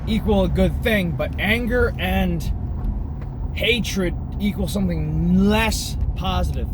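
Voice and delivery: folksy ranting talk-show host, lightly voiced; a hint of Alex Jones building his rant; Alex Jones impression. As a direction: preach about hell and anger like a conspiracy radio host warming up. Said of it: "my Alex Jones impression".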